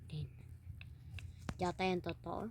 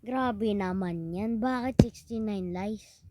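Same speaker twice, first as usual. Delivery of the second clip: exasperated disbelief; 2 semitones higher, 7 dB louder than usual. Real, not acted. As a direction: stretch it out in mock outrage. Reacting to sixty-nine lies.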